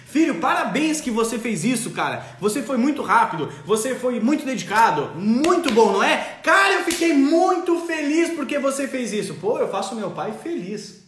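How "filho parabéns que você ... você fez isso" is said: a parent pouring feelings into praise; over-emotional praise. Shown as a demonstration. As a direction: gush with pride over parabéns. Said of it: "Como isso?".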